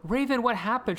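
quick playful Raven voice; voicing Raven. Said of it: "she could be like".

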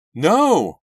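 high, loud cry of alarm; scream. A narrator's reading. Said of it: "Shannon screamed too".

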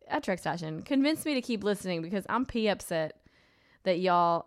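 lightly voiced Southern y'all accent; put-on y'all accent. Host reading a listener's correction tweet, light Southern accent. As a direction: read it with a hint of a Southern accent. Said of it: "I'm only doing this accent because she said y'all".

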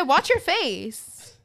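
slow, drawn-out mock threat; slow mock warning. Telling off a rude stranger on the pier, slow mock threat. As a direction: stretch every word out like a warning. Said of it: "I said".

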